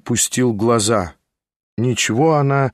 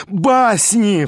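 exclaiming; 7 semitones higher than usual. A narrator's reading. The narrator exclaims at the old tales, scoffing. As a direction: scoff it aloud. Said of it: "вскричал я".

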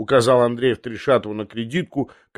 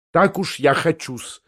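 higher, slow, firm refusal; curt retort; 5 semitones higher than usual. Acted. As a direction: cut the other man off firmly. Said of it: "отрезал Семён Сидорыч".

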